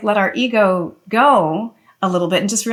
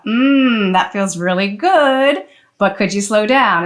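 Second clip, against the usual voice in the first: affirming gentle request; slower than usual. Shown as a demonstration. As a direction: praise first, then ask gently to slow down. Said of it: "it's all about the tone".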